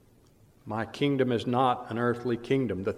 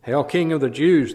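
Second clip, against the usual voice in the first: a touch of mock homage, louder; 3 semitones higher, 5 dB louder than usual. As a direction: sneer the greeting at the prisoner. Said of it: "they mocked".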